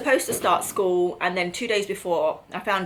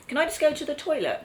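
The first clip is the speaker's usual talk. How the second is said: put-on little girl voice; 8 semitones higher than usual. Mother voices young daughter's question.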